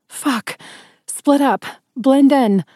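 urgent, high-pitched command; shouted order. A narrator's reading. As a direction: raise the voice to scatter the group. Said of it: "I shouted".

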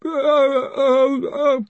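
high, panicky stammering gasps; tongue-tied with terror, voice pitched high; panting dread. A narrator's reading. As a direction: pant helplessly, wishing you were anywhere else. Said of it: "Collarbone panted, longing for death".

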